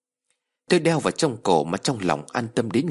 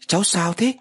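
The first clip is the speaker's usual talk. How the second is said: put-on higher, older woman's voice; grandmother voice; 10 semitones higher than usual. A narrator's reading. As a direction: voice the grandmother gently.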